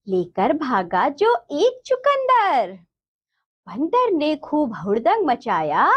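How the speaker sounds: put-on measured sing-song reading for children; children's rhyme recitation. Shown as a demonstration. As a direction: recite each line with drawn-out endings.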